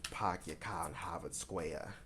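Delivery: put-on amateur Boston accent with dropped r's; bad Boston accent. Reader poking fun at herself in a bad Boston accent. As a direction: have another rough go at a Boston accent. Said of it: "a really shitty accent".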